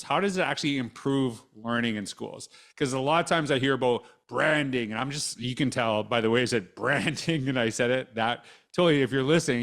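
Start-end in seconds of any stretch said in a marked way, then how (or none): 4.3-4.9 dry sarcastic jab at the word. Real, not acted. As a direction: say it with an eye-roll in the voice. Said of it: "you can hear I said it sarcastically".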